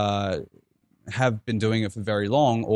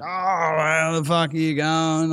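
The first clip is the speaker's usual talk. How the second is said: higher-pitched imitation of a drunk heckler; mocking old drunk; 7 semitones higher, slower than usual. Old drunk mocking an Irish guy's accent, higher-pitched imitation. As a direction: mimic a drunk poking fun at an accent. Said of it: "he heard the accent and he was just all like".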